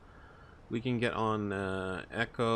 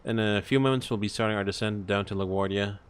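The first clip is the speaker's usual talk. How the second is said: cabin announcement, smooth and measured; captain PA announcement. Acted. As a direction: address the passengers like an airline captain. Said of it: "me do the P A".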